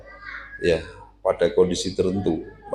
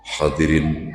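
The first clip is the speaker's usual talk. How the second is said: lower, solid orator's voice; big male voice; 5 semitones lower, slower than usual. Shown as a demonstration. Showing a man's voice addressing an audience, big and deep. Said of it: "suara sing gede, mantap".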